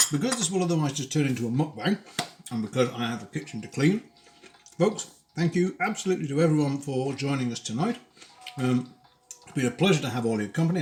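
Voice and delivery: talking through a mouthful of food; words round a bite of dinner; mouth full. Real, not acted. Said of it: "speaking with my mouth full".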